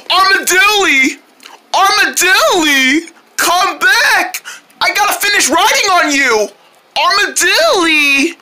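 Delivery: high, drawn-out calls; slow calling out. Acted. Boy calling after the runaway armadillo, drawn-out high calls. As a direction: call after it across a field.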